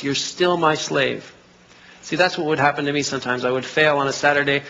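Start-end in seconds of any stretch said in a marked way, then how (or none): 0.0-1.3 accusing voice. Retold or imitated. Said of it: "you hear this accusing voice".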